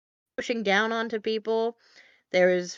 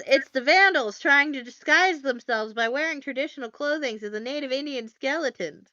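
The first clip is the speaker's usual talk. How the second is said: higher-pitched imitation of an alarmed tourist; hammed-up tourist outcry, pitched up; mock accusation; 5 semitones higher than usual. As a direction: lightly act out raising the alarm. Acting out tourist pointing them out.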